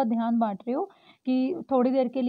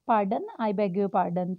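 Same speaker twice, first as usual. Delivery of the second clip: polite request; 3 semitones lower, much slower than usual. Shown as a demonstration. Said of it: "अगर इसकी जगह पे ऐसे बोलोगे".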